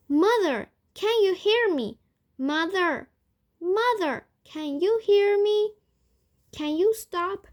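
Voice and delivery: high, loud pleas to mother; frantic calling. A narrator's reading. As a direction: call desperately to someone slipping away. Frantic daughter calls to shrinking mother.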